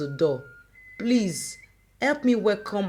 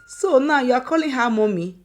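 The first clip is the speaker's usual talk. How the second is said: higher, louder wounded reproach; hurt outburst; 4 semitones higher, 4 dB louder than usual. Acted. Mother stung that her daughter calls another mommy.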